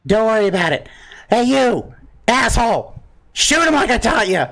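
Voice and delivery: very high put-on character voice; answering prayer voice. Game master as the prayed-to voice calling to others, high-pitched. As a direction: pitch it way up, busy and talking to others. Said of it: "you hear a voice groaning in your ear".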